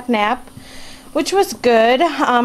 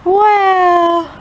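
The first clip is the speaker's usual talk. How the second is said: excited wow; 6 semitones higher, 5 dB louder than usual. Shown as a demonstration. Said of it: "Say wow".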